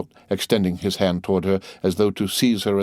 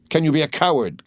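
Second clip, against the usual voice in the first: the question thrown out higher and hotter; rising excitement; 7 semitones higher than usual. A narrator's reading. Husband pressing his wife harder, mounting excitement. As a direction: let the accusation boil over. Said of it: "with increasing excitement".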